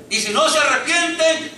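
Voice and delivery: a prophet crying out to the people; prophet's warning shout. Acted. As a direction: raise the voice on the warning, punch NO.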